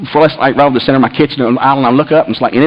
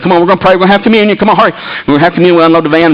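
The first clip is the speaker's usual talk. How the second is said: eager rallying; 2 semitones higher, faster than usual. Retold or imitated. Dad calling everyone in for communion, eager rallying. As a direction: hurry everyone along cheerfully. Retold call to hurry into communion.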